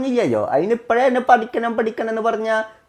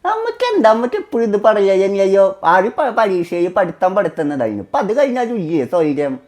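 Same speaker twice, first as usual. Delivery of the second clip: heated protest. Real, not acted. Son fed up with mother nagging about studies, heated protest. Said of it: "നീ എന്തിനാ അതിനിപ്പോ ചൂടാവണേ".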